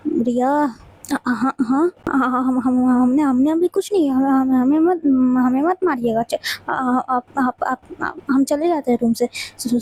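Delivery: stammering, scared of a beating; frightened stammer. Acted. Riya stammers fearfully to angry Ashvi. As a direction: stutter every word in fear.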